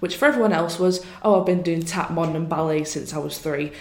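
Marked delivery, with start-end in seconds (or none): none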